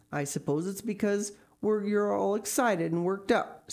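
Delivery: understated reproof from a guardian; disapproving. A narrator's reading. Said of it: "said Marilla disapprovingly".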